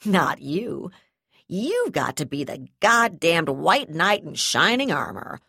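loud sneering threat; sneering angry threat. Acted.

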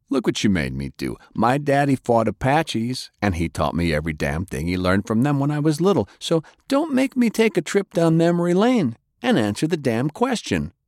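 tough threat climbing high in pitch; lightly voiced interrogator, exasperated. A narrator's reading. Voices interrogator after stabbing prisoner.

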